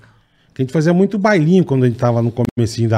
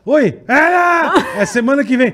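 mock shout; 11 semitones higher than usual. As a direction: call out the news across the doorway. Friend at door, party is next week. (grito lento e agudo)

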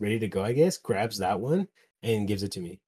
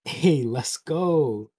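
drawn-out, slightly raised celebratory cheer; slow, louder hype-up; retold cheer; 5 semitones higher, 5 dB louder, much slower than usual. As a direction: stretch it out like a happy little victory call. Celebrating his drawing on the wall.

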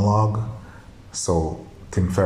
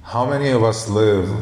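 reading-aloud voice; 4 semitones higher than usual. Acted. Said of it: "as if I'm reading a book".

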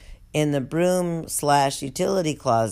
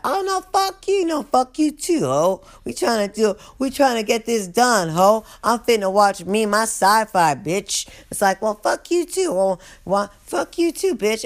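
much higher, mocking squabble; bickering inmates; 5 semitones higher than usual. Inmates trading insults during the head count, high mock squabble. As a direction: sass each other in a high put-on voice.

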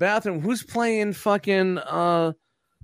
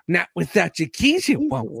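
Lorraine Bracco impression. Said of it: "my version of Lorraine Bracco".

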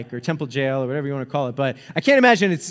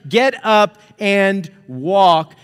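loud, drawn-out command, each word stretched; slow booming command; 3 semitones higher, 5 dB louder, much slower than usual. Retold or imitated. Peter commands the lame man in Jesus' name, slow loud proclamation. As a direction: proclaim it slowly with full force.

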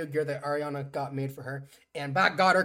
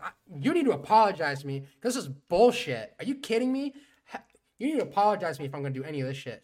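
mock indignant; 5 dB louder than usual. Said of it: "she's like".

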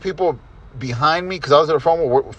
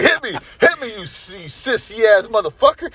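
higher, laughing mock taunt; mocking wrestler taunt; 5 semitones higher than usual. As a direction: ham up the heel's taunt through a laugh. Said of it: "He's like".

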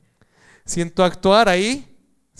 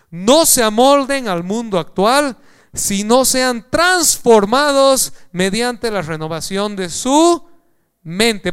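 slow, louder, higher preaching read; emphatic scripture reading; 5 semitones higher, 7 dB louder, slower than usual. Acted. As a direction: proclaim the verse slowly to the church. Reads Romans twelve aloud.

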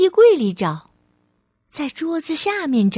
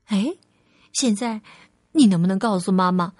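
low, tender motherly voice; calm, lower-pitched mum; loving mother, reassuring; 4 semitones lower than usual. Acted. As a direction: reassure your little one sincerely. Mother reassures and asks child.

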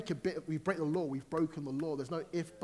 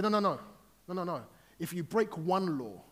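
higher, emphatic correction in God's role; God's firm objection; 4 semitones higher, 5 dB louder than usual. Acted. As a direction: cut in firmly, lifting the voice. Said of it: "God said".

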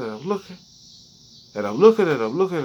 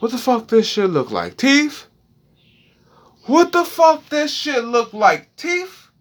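each repeat higher and more shrill; rising panic; 11 semitones higher than usual. Retold or imitated. A man realizing the marks are teeth, rising higher in alarm.

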